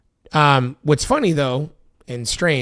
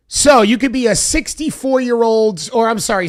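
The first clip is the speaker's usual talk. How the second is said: exasperated emphasis; 8 semitones higher, 6 dB louder than usual. Real, not acted. Exasperated repeat of point.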